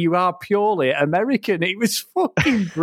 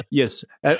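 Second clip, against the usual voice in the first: lower, tentative mock German accent; attempted German accent; 3 semitones lower than usual. Podcaster quoting the film's Nazi, attempted German accent. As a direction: have a rough go at a German accent. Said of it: "try to do a German accent".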